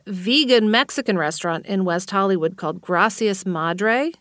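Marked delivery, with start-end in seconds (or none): 2.8-4.1 put-on clumsy Spanish accent on the name; bad Spanish accent. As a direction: attempt a Spanish accent, badly. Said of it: "That's my worst Spanish accent ever".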